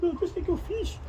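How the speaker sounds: a dumbfounded disciple, caught off guard; dismayed Peter. Retold or imitated. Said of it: "Imagina a cara de Pedro". (Pedro atordoado, voz um pouco mais aguda)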